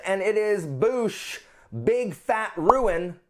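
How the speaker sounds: stretched-out big reveal; dramatic reveal. Real, not acted. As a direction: unveil the title like a prize. Dramatic reveal of next book.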